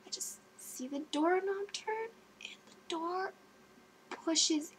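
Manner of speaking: hushed suspense whisper. Real, not acted. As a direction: whisper it like a scary story. Suspense as the door opens.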